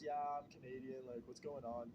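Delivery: put-on confused by the girls, answers low and puzzled; weirded out. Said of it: "I'm all weirded out and I'm like".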